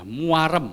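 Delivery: muarem with a stretched ua; Javanese emphasis. Shown as a demonstration. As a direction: say muarem, drawing out mua. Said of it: "rasa cukup itu adalah muarem".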